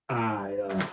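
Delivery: woo her hesitantly; a hint of a smitten old patron; flirty portly gentleman. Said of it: "he looks at you and he goes".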